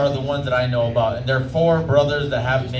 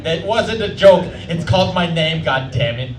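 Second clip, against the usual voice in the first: mock exasperation; 4 dB louder than usual. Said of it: "I'm like".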